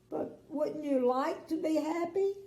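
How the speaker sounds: high, gently asking; bright little girl. Acted. Little Miss Sunshine asks the king, high and sweet. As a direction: ask sweetly like a small girl. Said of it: "she asked".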